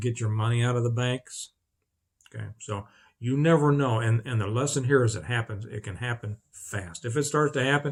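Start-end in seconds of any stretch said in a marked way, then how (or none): none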